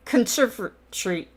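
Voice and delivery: Conservatory squashed to "con-SERV-a-tree"; Conservatory with the "tory" swallowed to "tree"; British squished pronunciation. Shown as a demonstration. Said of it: "the Brits like to squish words".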